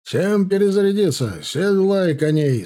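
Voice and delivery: high, loud barked orders; commanding shout. Acted. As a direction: order the men to reload. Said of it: "скомандовал Кравцов".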